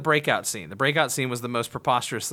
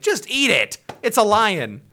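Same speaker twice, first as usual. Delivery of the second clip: higher, louder outburst at the screen; exasperated yell; 7 semitones higher, 5 dB louder, slower than usual. Retold or imitated. Shouting at the T-Rex in the preview, exasperated. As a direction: yell at the dinosaur to just get on with it.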